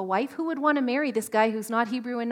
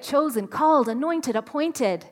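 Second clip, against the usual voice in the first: louder proclaimed list, slowing at the end; bold declaration; 4 semitones higher, 6 dB louder than usual. Shown as a demonstration. Preacher modelling how to speak destiny over yourself, proclaimed loudly. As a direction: declare each word like a title. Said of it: "Just go ahead and say it".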